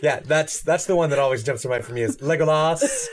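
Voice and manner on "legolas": Aragorn. Retold or imitated. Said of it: "his accent's all over the place".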